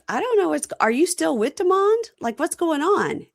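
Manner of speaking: high-pitched, pressing questions; retold confused demand. Gigi questioning Bonita about Demond, retold insistently. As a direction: act out demanding an explanation.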